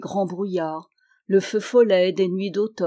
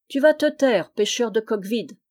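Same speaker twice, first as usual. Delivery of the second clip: a raised, mock-stern rebuke; scolding the boy; 3 semitones higher than usual. Simon to little Jeannin, a raised scolding. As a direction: shush the cheeky boy. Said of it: "disait cependant Simon".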